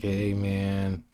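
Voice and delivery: lightly put-on dude greeting; a casual, mildly voiced hey man; a hint of a laid-back dude.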